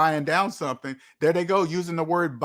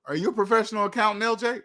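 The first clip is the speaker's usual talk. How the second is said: higher, quicker mock question; lightly voiced questioner; 5 semitones higher, faster than usual. People asking the host his profession, lightly voiced questioner. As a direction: imitate someone asking, pitched up.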